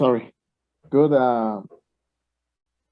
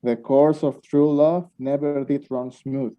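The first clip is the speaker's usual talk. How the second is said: slow Shakespeare recital; slower than usual. Acted. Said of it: "Now, that's some Shakespeare".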